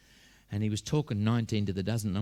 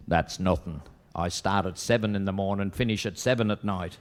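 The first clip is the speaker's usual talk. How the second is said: put-on Irish accent; 4 dB louder than usual. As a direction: top his complaint with a light Irish accent. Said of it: "Two Irish fellas discussing their working hours".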